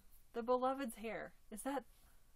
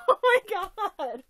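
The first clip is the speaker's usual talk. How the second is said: very loud high squeal; 8 semitones higher, 17 dB louder than usual. Real, not acted. Overwhelmed by gifts, very loud squeal. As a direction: belt it out in delight. Overjoyed at the gift.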